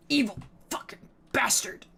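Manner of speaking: hissed whisper at the cat. Real, not acted. Streamer whispering at her cat by the window. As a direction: whisper it under your breath.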